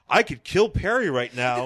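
laughing through the threat. Pretend. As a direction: chuckle out the line. Clark's inner thought, laughing.

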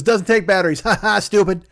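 acted bratty taunt; mocking George. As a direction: gloat and laugh at them. George taunts his family.

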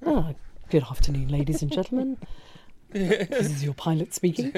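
slow, soft captain's intercom voice; lightly voiced pilot greeting passengers; airline pilot announcement. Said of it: "you should definitely do a pilot voice".

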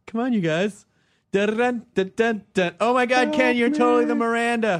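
loud, high excited gush. Pretend. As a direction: squeal it like a TV friend. Sex and the City bit.

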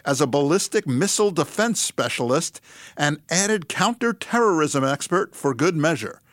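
light epic trailer narrator, half laughing; a hint of the big movie-trailer announcer. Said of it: "in my best movie trailer narration voice".

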